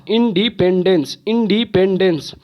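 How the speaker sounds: इंडिपेंडेंस in four distinct beats; syllable by syllable. Shown as a demonstration. Teacher counting four syllables, इंडिपेंडेंस in distinct beats. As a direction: give each syllable of इंडिपेंडेंस its own beat. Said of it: "चार बार ही है".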